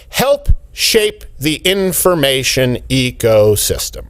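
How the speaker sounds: drawn out slowly, sarcastic; slow mocking quote. Mocking a report's phrase, drawn out slowly. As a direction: read the quote slow and snide.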